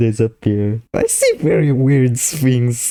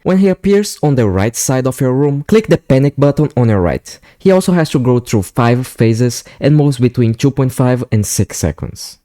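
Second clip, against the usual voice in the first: voiceover narration. Acted. Scripted voiceover explaining game mechanics.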